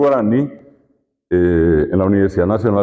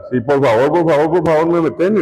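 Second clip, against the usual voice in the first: eager yes; 5 semitones higher than usual. Pretend. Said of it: "De cabeza vamos a tirarnos".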